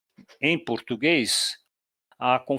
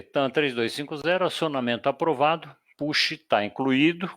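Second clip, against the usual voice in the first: controlador no rádio. Shown as a demonstration. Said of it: "Resposta do A T C".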